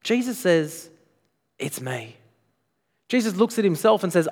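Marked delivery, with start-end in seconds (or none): 1.6-2.2 low, hushed answer; quiet, matter-of-fact claim; understated reveal. Acted. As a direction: drop right down, soft and simple. Jesus' claim quoted as quiet reveal.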